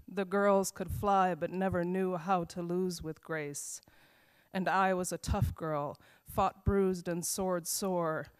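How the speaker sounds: measured, rhythmic poetry reading voice; slow, deliberate recital with pauses between lines; poem reading. Acted. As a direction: read it like a poem to an audience, line by line. Reads her poem aloud.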